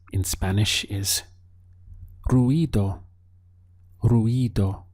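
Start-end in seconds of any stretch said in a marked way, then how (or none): 2.3-3.0 ruido with a clear rolled r and ui glide. Shown as a demonstration. Teacher modelling ruido for the learner. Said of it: "Make sure you're getting this E sound over the I". 4.0-4.8 Ruido said slowly, roo-EE-do, the i clearly stressed. Shown as a demonstration. Teacher repeating Ruido so students copy it. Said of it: "Make sure you're getting this E sound over the I".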